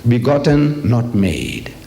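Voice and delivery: slow, weighty quotation of a creed; reciting catechism. Retold or imitated. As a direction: quote doctrine with heavy deliberation. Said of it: "Their books of Shahada, they say".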